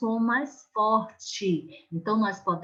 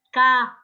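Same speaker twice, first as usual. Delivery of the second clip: Cadeira with DEI loud and stretched; stress on middle syllable; 7 dB louder, much faster than usual. Shown as a demonstration. Teacher shows pupils the strong sound, dei stressed in Cadeira. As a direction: punch and hold the dei in Cadeira. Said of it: "Olha o som forte aí no dei".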